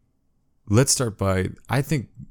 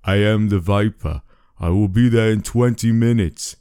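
put-on menacing foreign accent; lightly Austrian-accented caller; creepy Viper voice; 3 semitones higher than usual. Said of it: "the same creepy voice said".

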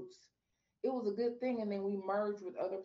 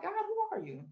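searching plea; 12 semitones higher than usual. Retold or imitated. Quoting her own prayer to God.

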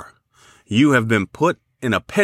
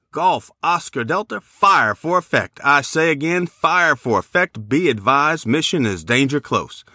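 higher, pressing fire command; urgent army radio call; 3 semitones higher than usual. Pretend. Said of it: "put it into a U S Army format".

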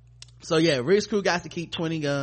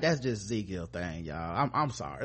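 mock Kingdom member; 8 semitones lower, 7 dB quieter than usual. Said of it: "Nobody else talks like that".

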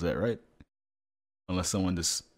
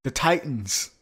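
high, loud dramatic prophecy through laughter; mock epic prophecy; 13 semitones higher, 10 dB louder than usual. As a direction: proclaim it like a doom prophet. Mock doomsday pronouncement.

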